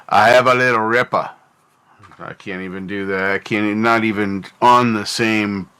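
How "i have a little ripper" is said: put-on a half-hearted stab at an Australian accent, quick; failed Aussie accent. Streamer attempts an Aussie accent for chat, badly faked Australian accent. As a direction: try an Aussie twang and miss it. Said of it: "I keep trying to do a legit Aussie accent".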